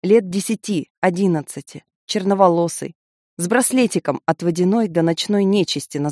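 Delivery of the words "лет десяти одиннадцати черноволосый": ordinary delivery, nothing marked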